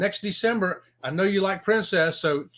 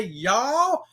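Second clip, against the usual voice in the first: drawled y'all. Retold or imitated. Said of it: "I turned it into a y'all".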